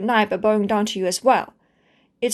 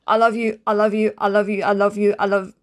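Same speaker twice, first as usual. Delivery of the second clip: rapid repetition. Acted. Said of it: "Here, I can start right now".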